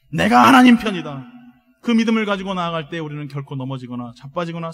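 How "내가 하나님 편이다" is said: loud, forceful vow; emphatic cry of resolve; resolute declaration. Shown as a demonstration. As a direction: proclaim it firmly at full voice.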